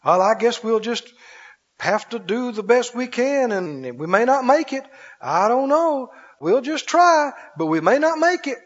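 lightly voiced weary complainer, sighing; mock a tired defeatist who expects to fail; whiny complainer. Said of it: "people talk like this all the time".

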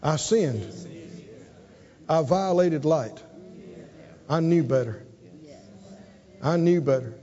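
low, soft contrite confession; low, hushed admission of guilt; contrite son. Acted. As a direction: murmur it like a son ashamed. Son voiced confessing his sin.

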